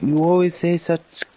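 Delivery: grave German officer voice; brief the men in German accent. Acted. German officer sketch dialogue.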